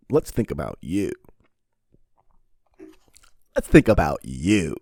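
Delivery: high, loud mock-obliging sarcasm; sarcastic reply. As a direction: drip with fake helpfulness.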